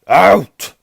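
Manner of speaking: huge high bellow; roaring. A narrator's reading. Uncle throws boys out of kitchen, roaring. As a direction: roar the single word. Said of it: "roared Uncle Vernon".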